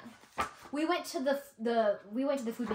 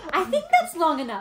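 laughing; 5 semitones higher, 9 dB louder than usual. Real, not acted. Laughing about video length.

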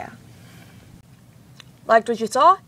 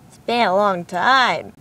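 sore throat; slower than usual. Real, not acted. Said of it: "I have a small cold and my throat hurts really bad".

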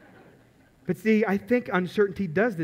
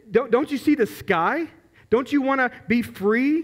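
higher-pitched, restrained mock yell; retold yelling; 5 semitones higher than usual. Zookeeper urging caged hawks to fly, mock-yelling. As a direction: plead as if yelling, holding the volume back. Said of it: "He starts yelling at him".

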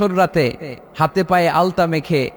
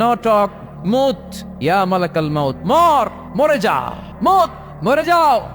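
commanding divine voice; 4 semitones higher, slower than usual. Acted. God's command, slow and rising.

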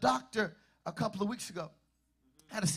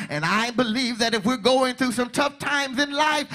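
building sermon delivery, louder than the teaching talk; preaching; 2 semitones higher, 6 dB louder than usual. Real, not acted. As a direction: preach it with long pauses between phrases. Preacher building toward the climax.

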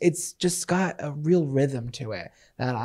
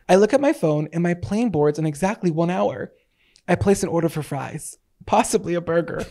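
dramatic monologue reading. Shown as a demonstration. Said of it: "monologue I wrote".

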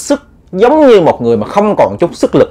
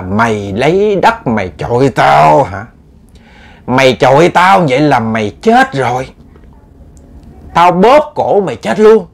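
menacing ghost; slower than usual. Retold or imitated. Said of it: "ông mới nói là".

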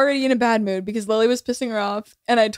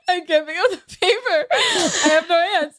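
laughing while quoting; 4 semitones higher than usual. Retold or imitated. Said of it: "clapping her elbows together and goes".

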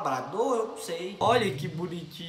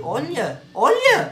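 sudden much higher, louder olha; excited cry; 6 semitones higher, 8 dB louder, much slower than usual. Real, not acted. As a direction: burst out with a thrilled olha. Excited reaction to rescue video. (olha gritado de empolgação)

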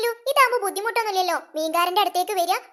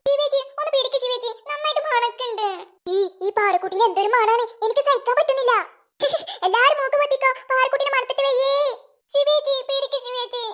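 put-on higher, playful kids' taunting; teasing child voice; 5 semitones higher than usual. Children teasing Parukutty about the fish smell, high and playful. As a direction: tease and run off laughing.

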